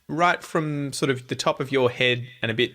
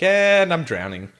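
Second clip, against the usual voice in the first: mock drowning; 6 semitones higher, 5 dB louder, slower than usual. Mock panic at hard talk.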